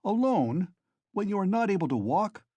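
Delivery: high, loud exasperated scolding; furious. A narrator's reading. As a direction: shout him down in disbelief. Razumihin furious at Raskolnikov.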